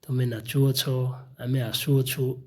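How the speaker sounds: slow, spelled-out teacher examples; slow, careful dictation of examples; slow example sentences. Shown as a demonstration. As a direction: read each example slowly for the class. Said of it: "ଏହିପରି ବାକ୍ୟ ଥାଏ".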